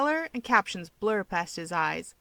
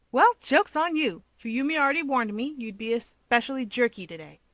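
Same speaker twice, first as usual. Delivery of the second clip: higher, louder smug jab; teasing Keigo; 4 semitones higher, 3 dB louder than usual. Acted. Keigo teasing Toya, smug and bright. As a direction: needle him cheerfully.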